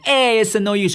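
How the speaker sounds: put-on old clown whine. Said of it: "this clown in the corner is going".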